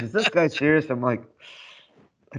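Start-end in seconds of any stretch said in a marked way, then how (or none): 0.0-0.9 higher-pitched mock incredulous question; retold disbelief. Officer asks about the nervous speech-giver, mock incredulous. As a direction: imitate an officer who can't believe it. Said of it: "Somebody goes".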